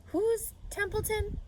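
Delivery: high, slow puzzled mother; Mrs. Arable's voice. Acted. Mother asking her daughter at breakfast, baffled and slow. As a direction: draw it out, baffled.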